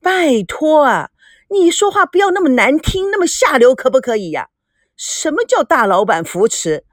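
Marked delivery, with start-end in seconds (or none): 0.0-4.5 sharp, rising protest at her father; angry outburst. A narrator's reading. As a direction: push back at him, stung and indignant. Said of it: "孙娜怒从心生".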